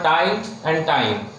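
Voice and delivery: time and time, each said slowly with a long, open diphthong. Shown as a demonstration. Teacher showing the I sound in time to shorthand students, slow and clear. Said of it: "like sound I in a word".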